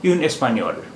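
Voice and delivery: "एस्पेन्योल" said exactly as in the masculine, only "इन" changes; "इन एस्पेन्योल" with "एस्पेन्योल" unchanged, falling at the end; French pronunciation demo. Shown as a demonstration. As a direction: show the feminine sounds the same. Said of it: "लेकिन उच्चारण दोनों का एक जैसा है".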